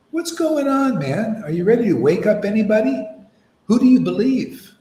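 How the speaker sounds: rising, fast preaching challenge; challenging call. Real, not acted. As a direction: fire the challenge at the crowd.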